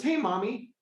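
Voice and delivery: lightly put-on little girl voice; little daughter. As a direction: call to mom like a small kid. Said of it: "her daughter looked up and goes".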